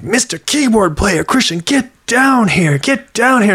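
high, summoning call to come down; excited pastor calling from the front. Retold or imitated.

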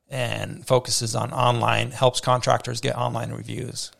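hoarse, fading voice; losing voice. Real, not acted. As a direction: voice giving out, strained. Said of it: "I'm losing my voice a little bit".

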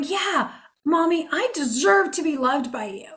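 a hint of a little kid; child voice. Child to mommy: lightly voiced childlike reply. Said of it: "The child isn't going".

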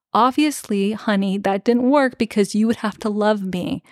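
lightly imitated condescension; kindly patronizing. Podcaster voicing Dora explaining to Elias, kindly patronizing. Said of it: "very kindly, like, in a patronizing tone".

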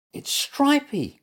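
high, slow squeaky cry; alarmed little animal cry. A narrator's reading. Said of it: "cried Little Mutt".

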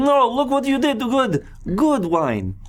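loud high festive barker call; booming sing song welcome. Acted. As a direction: boom it out like a carnival host.

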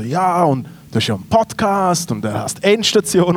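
lightly put-on podcast host voice; mock moderator's intro; imitated host intro. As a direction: lead in like a presenter cueing a guest. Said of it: "macht so eine gute Anmoderation".

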